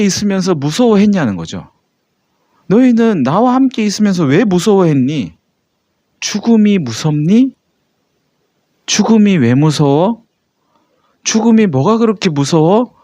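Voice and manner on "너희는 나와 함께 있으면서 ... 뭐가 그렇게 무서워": a touch of a teacher's rebuke, slightly raised; understated reproach from Jesus; mild scolding. Acted. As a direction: gently scold the disciples. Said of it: "라고 야단치신 겁니다".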